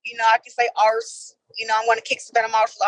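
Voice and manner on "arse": lightly British "arse"; a touch of British accent. Shown as a demonstration. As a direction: drop the r in British fashion. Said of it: "I only do it whenever I'm really, like, feeling it".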